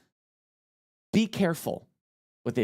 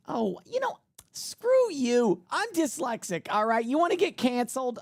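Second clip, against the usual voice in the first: hammed-up indignant rant, higher pitched; mock outrage; 10 semitones higher than usual. Mock-ranting at commenters who mocked his misspoken word, higher. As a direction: play the offended, huffy victim.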